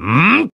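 closed-mouth rising effort grunt; straining grunt. Acted. Fighter gathering force, rising effort grunt. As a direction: strain upward through a hum.

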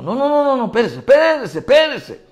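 high, loud, agitated shouting; frantic outcry. Retold or imitated. Appraiser overcome before the pastor, imitated frantic high shouting. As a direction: imitate someone seized by alarm, crying out.

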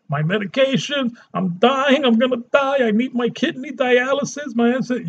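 a touch of a panicked patient; lightly voiced panic; mild mock panic. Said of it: "panicking and screaming".

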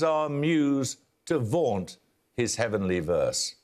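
slow, measured verse reading; solemn reading of old verse; poem recital. Acted. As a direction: give each line weight, drawn out. Reads verse quotation aloud.

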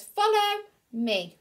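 high lightly voiced duck calling. Dizzy Duck calling her ducklings, high cheerful voice. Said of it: "reading Dizzy's line".

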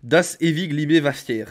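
loud, very slow amateur German; clumsy German accent. Acted. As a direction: declaim the German slowly and loudly, untrained accent. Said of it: "L'accent allemand, par contre, y a rien". (accent allemand approximatif, lent et fort)

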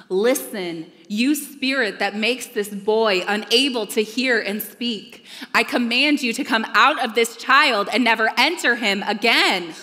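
Jesus rebuking the evil spirit, loud and stern; stern rebuke. Acted. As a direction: command the spirit out with full authority. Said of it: "he rebuked the evil spirit".

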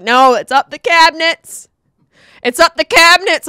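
high, loud alarmed yell; panicked shout. Retold or imitated. Friend shouting that fire reached the cabinets, panicked. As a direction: yell it in a panic over the phone. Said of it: "He's like".

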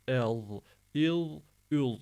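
"El, il, ül" light vowel into heavy buzzed ending; thick lisp. Shown as a demonstration. Teacher drilling za, heavy lisped "El, il, ül". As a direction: thicken only the lisped final sound. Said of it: "buna gelince kalın olacak".

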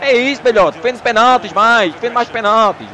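loud, eager cheer for the goalkeeper; praising shout. Real, not acted. Praising his goalkeeper loudly.

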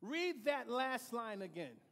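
grab the room's attention; emphatic interruption. Real, not acted. Preacher stopping the reader, loud and urgent.

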